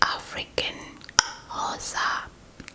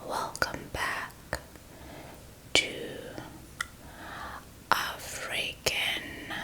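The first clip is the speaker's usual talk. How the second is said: ASMR whisper. Real, not acted.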